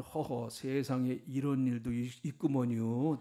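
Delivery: slow, drawn-out Chungcheong drawl; Chungcheong dialect. Shown as a demonstration. Preacher amusing the congregation with a slow Chungcheong dialect. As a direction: take it slowly in a Chungcheong accent. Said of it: "충청도 사투리는".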